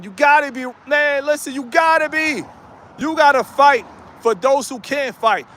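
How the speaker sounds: rally them like a coach; fired-up exhortation. Real, not acted. Fired-up pep talk to viewers.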